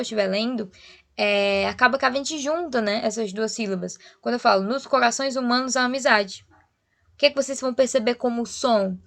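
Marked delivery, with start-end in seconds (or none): 4.6-6.4 "humanos a amizade" linked as "humano-za-mizade"; words run together. Shown as a demonstration. Teacher showing how reading joins syllables, linked words. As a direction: glide from "humanos" into "a amizade" without a break. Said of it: "vocês vão escutar eu falando junto".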